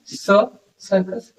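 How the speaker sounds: स held, then सर्कस drawn out very slowly; slow sound demo. Shown as a demonstration. Teacher isolating the first sound for students. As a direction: stretch स, सर्कस to show the s sound. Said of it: "सर्कस से क्या आ रहा है".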